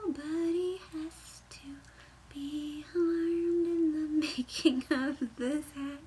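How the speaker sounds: slow, hushed creepy storyteller voice; mock ominous. Knitter teasing viewers, slow and mock sinister. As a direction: spook the viewers, slowly. Spooky joke about harmed fur.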